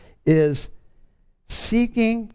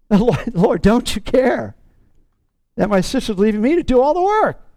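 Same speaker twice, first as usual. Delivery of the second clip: Martha's exasperated whine at Jesus; mock complaint, pitched up; annoyed Martha; 4 semitones higher than usual. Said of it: "she was annoyed with Jesus".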